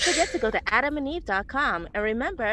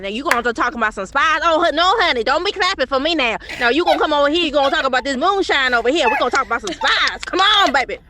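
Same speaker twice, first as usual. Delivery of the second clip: loud, hammed-up Southern drawl; a big Southern drawl calling everyone honey; 8 dB louder than usual. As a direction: play a brassy Southern auntie. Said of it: "I know how to do the draw now".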